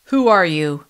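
loud, hard demand; loud bully demanding who she is; Hanson's sudden challenge. Acted. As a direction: bark the question at her back. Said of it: "Hanson asked".

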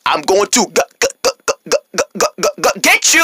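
mechanical stutter rising in pitch; robot pig. Acted. Pig threatening to get Minji, robotic stutter. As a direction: jam on each syllable, then burst out. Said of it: "Why is she acting like a robot?".

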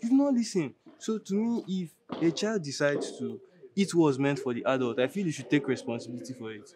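measured, preachy telling-off; sententious, deliberate scolding; mock-elder lecturing. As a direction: lecture a friend like a disapproving parent. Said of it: "why you dey talk like this now?".

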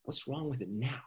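a quiet, incensed echo of the question. Retold or imitated. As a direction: throw his words back at him, cold and offended. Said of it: "was incensed".

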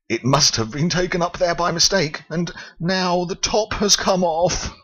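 explaining bear. Acted. Paddington explains.

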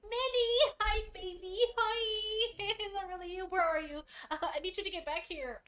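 Mickey voice. Acted. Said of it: "get back to the voices".

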